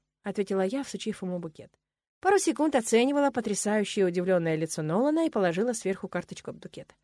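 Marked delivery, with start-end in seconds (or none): none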